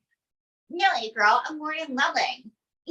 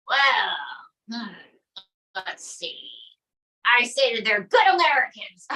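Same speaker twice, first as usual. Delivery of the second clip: Trump impression; 3 semitones lower than usual. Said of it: "Donald J Trump".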